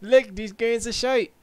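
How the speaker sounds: mock British accent; loosely imitated British executive; Jim Ryan impersonation. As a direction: put on a rough British accent, teasing. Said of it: "Jim Ryan's gonna be like".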